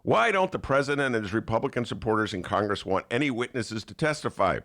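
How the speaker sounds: mock right-wing commentator, sneering; sarcastic read. Host reading a sarcastic column to listeners, sneering. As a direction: read it dripping with fake outrage. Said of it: "it's like sarcasm".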